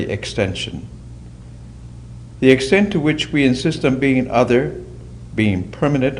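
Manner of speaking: deliberate reading with weighty pauses; measured reflective reading. Acted. Reading a wave parable to a meditation group, measured and reflective. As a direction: set out each phrase, then pause.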